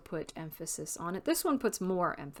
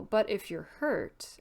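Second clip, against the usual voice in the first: slowed, drifting off unfinished; trailing off. Shown as a demonstration. Teacher demos trailing off without finishing. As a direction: let the sentence fade away. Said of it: "this is trailing off".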